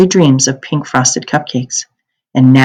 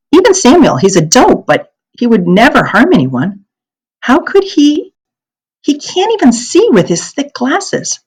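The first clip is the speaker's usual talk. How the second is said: put-on upset girl; 7 semitones higher than usual. A narrator's reading. Anne-Marie upset defending neighbors.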